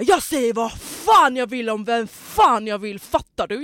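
högljutt, långsamt och eftertryckligt härmat utbrott; härma hans ilskna svar med full volym och utdragna ord; härmad ilska. Retold or imitated. Återger mannens aggressiva svar. (härmat argt utbrott)

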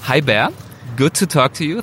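ordinary talk, nothing marked

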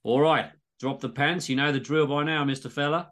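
lightly voiced Aussie doctor; a hint of Aussie doc routine; exaggerated Aussie accent. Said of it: "all dialogue is in exaggerated Aussie accents".

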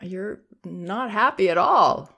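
name the feelings without flinching; calm acknowledging. Shown as a demonstration. Parent to screaming toddler, easy and comfortable. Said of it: "I can say it like that".

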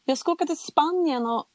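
high-pitched, disbelieving objection; retold protest. Patient tells doctors she has a show in Spain, protesting. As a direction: plead your case, voice pitched well up. Protests being operated on now.

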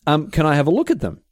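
fake-friendly, fishing for the cards; sly villain quote. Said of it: "until he was like".

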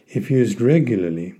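"regularly" picked out with extra weight; stress on regularly. Real, not acted. Podcaster warning listeners about using relievers regularly, stress on "regularly". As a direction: lean on "regularly" with a small lift in pitch. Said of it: "I emphasize the word regularly".

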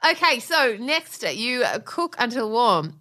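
drawn-out mock British accent. Wife reads next recipe step, mock British accent. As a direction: read it slowly in put-on British. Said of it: "I'm British".

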